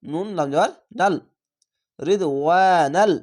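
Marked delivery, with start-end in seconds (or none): 2.0-3.1 slow "রিদওয়ানাল", ওয়া held long; one-alif stretch. Shown as a demonstration. Teacher joins the spelled word for learners, stretched slowly. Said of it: "এক আলিফ টেনে পড়বেন".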